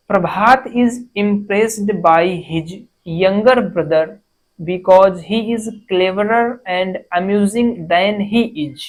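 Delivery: very slow, word by word dictation; dictation reading. Shown as a demonstration. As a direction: read it out slowly for the class to follow. Reads exam sentence aloud. (धीरे-धीरे बोलकर लिखवाना)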